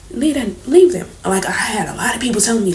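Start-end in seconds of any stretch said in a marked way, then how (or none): 0.1-1.1 urging shout. Retold or imitated. People urging her to leave.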